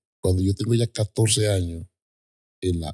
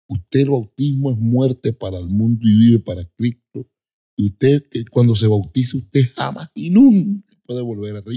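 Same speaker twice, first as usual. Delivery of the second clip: louder, emphatic warning; imitated stern pastor; 2 semitones higher, 4 dB louder than usual. Pastor warning a baptism candidate, forceful imitated admonition. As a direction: press each clause home with rising force. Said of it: "el bautismo es fuerte".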